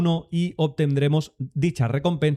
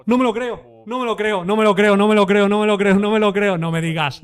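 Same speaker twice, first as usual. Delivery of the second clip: raised, loud rapid-fire repetition, easing at the end; real stunned disbelief; 5 semitones higher, 6 dB louder than usual. Real, not acted. Streamer who never expected the news, chanting in disbelief. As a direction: repeat it frantically, coming down from the screaming. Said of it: "yo me quedé completamente loco porque no me lo esperaba".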